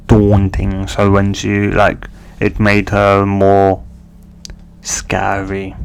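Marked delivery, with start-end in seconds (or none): 4.8-5.7 whispered. Acted. Whispering the scary look.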